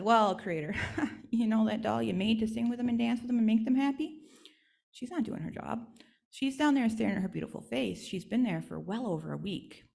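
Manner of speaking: chuckling, gossipy messenger; tattling Screech Owl. Acted. Screech Owl tattling to Creator about the doll, gossipy. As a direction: relish telling on her.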